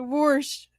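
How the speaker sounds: "Warsh" with an r slipped in, Southern style; imitating warsh. Mocking how her friend says wash. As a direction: say "Warsh" like a country girl. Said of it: "She said wash instead of wash".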